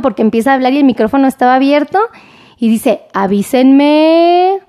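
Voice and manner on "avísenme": very slow, drawn-out avísenme, lightly mimicked; mock the caught anchor stretching each word; imitating news anchor. Doctor mimicking a newscaster caught on open mic, slow and drawn out. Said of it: "así igualito".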